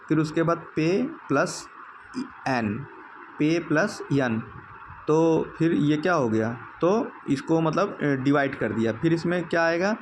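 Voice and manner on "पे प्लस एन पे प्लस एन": breaking the word apart. Shown as a demonstration. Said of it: "पेन पहले पूरा लिख दिया है".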